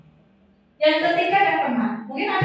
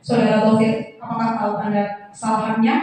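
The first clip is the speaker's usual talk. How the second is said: formal questioning; 4 semitones lower than usual. Shown as a demonstration. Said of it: "bahasa tubuhnya itu formal".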